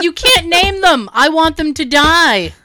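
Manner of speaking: acted-out indignant objection; exasperated protest. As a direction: scold in mock exasperation. Acted quarrel over named snakes.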